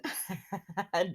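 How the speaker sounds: short quiet chuckle; laugh. Real, not acted. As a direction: chuckle softly to yourself. Amused saying Hope and Deacon.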